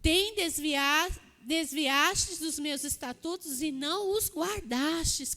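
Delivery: bem devagar, sílaba por sílaba; releitura lenta. Shown as a demonstration. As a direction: repita o versículo devagar. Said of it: "É o que ele fala aqui". (releitura pausada do versículo)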